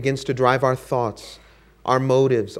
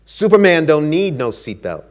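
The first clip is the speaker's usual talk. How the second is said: louder, cocky snap; proud snap; 3 semitones higher, 6 dB louder than usual. Acted. Ali snapping at the flight attendant, cocky and proud. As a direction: toss it off like a proud champion. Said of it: "he snapped".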